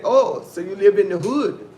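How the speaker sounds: imitating the waiter's startled question; surprised waiter. Retelling the waiter's shocked question, loud mock surprise. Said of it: "That's how he said it".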